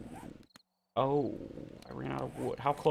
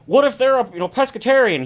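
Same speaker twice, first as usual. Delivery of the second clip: high, louder imitation of the chef demanding; mock Ramsay; 9 semitones higher, 7 dB louder than usual. Retelling Ramsay grilling the cook, mimicked high and loud. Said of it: "And he's like".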